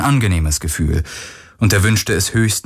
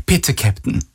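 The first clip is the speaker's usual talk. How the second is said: higher, breaking into a repeated plea; beg, pitch jumping on the last word; urgent pleading; 6 semitones higher, slower than usual. A narrator's reading. Kirai begs the captain to escape, urgent pleading. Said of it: "drängte Kirai".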